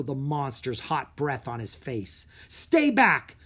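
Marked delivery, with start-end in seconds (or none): 2.5-3.4 loud, firm high warning. A narrator's reading. Drake warning the ogre, loud and firm. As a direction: warn the monster off. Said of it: "Drake warned".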